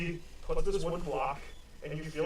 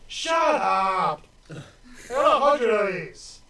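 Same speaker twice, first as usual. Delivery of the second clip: loud, higher snapping retort; irritated shout; 6 semitones higher, 11 dB louder, slower than usual. Acted. Guard snaps at Seth, loud and high. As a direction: bark it back, fed up and loud. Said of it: "He goes".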